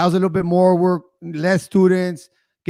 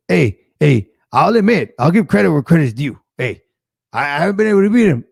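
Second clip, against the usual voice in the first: hint of the coach's voice; 4 dB louder than usual. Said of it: "and his voice, and he goes".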